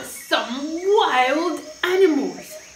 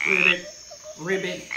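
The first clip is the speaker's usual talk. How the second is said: frog ribbit; 9 semitones lower, 4 dB quieter, much faster than usual. Retold or imitated. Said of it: "It goes like this".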